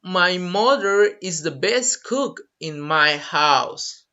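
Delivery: slow, clear model sentence; carefully paced example. Shown as a demonstration. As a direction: read it slowly for learners. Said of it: "Or you can say".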